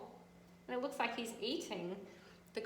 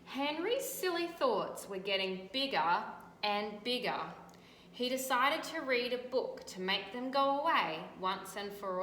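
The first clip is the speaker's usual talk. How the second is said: louder, animated read-aloud; storybook reading; 4 dB louder than usual. A narrator's reading. Teacher reading to children, animated storytelling. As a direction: make the tale vivid for kids.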